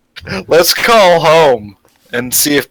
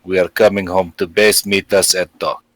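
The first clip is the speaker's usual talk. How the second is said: put-on Russian accent. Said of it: "as Dimitri saying".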